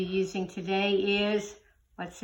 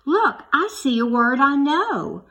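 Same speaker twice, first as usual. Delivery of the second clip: excited gasp; 4 semitones higher, 6 dB louder than usual. Acted. Excited at finding a word.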